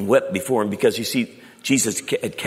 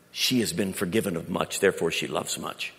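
gentle Jesus; 5 semitones lower, 4 dB quieter than usual. Acted. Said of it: "he pointed to her and he said".

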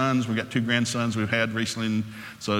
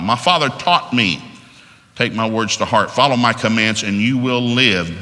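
louder, measured Bible reading; scripture reading; 3 dB louder than usual. Acted. Preacher reading Proverbs to the congregation, louder solemn reading. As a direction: read the verses with slow weight.

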